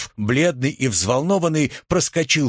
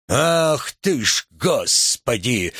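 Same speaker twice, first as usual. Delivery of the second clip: plain reading voice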